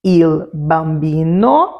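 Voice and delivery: "Il bambino" spoken slowly and clearly, each syllable in Italian; teacher says "Il bambino" slowly in Italian; Italian example word. Shown as a demonstration. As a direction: model "Il bambino" slowly for the class, Italian vowels. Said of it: "Vamos ver uns exemplos?".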